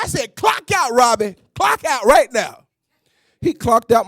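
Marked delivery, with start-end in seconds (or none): 0.3-2.6 angry command. Retold or imitated. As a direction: make him clock out now. Angry manager repeats order.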